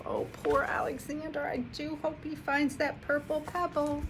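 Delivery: high whispered sympathy; hopeful whisper. Real, not acted. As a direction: whisper your hope for him. Reader's hopeful aside.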